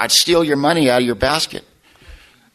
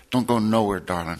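"Don't go nowhere, darling" much softer, dropping low at the end; softly imitating the old lady's tender plea; whispered plea; 3 semitones lower, 5 dB quieter than usual. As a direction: lean in and breathe it close to the ear. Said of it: "she whispers up in my ear".

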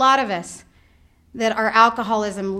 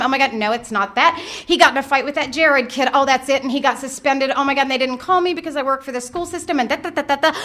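raised, rushing worry; inner panic; 4 semitones higher than usual. Retold or imitated. Mother's inner voice spinning through worries, mildly raised. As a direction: spiral on and on. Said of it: "this is what happens in my head".

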